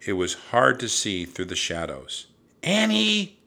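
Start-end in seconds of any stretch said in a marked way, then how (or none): 2.6-3.4 high, loud searching shout. A narrator's reading. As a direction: shout a name into the woods. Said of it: "Jack shouted".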